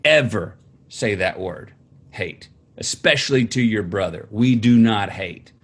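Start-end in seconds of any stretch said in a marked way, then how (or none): none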